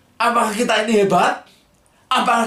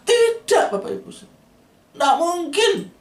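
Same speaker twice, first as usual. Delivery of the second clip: emphatic no; 10 semitones higher, slower than usual. Real, not acted. Preacher denies emphatically.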